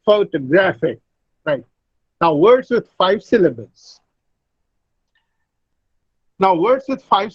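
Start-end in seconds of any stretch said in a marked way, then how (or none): 0.0-1.0 "photographic" said pho-to-GRAPH-ic; stress on third syllable. Shown as a demonstration. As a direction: lean on GRA in "photographic". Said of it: "receives the secondary stress".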